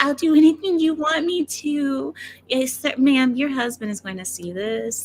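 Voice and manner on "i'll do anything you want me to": mock pleading; a hint of a desperate woman; imitating the woman. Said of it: "when she said that".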